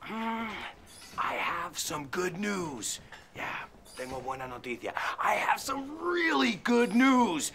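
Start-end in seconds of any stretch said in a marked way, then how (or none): 5.2-7.5 excited. Acted. Enthusiastic fitness host announcement.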